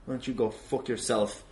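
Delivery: normal talking voice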